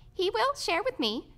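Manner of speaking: high-pitched little bug voice; squeaky, high creature voice; roach character. A narrator's reading. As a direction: pipe it up like a small insect. Roach Tick speaks.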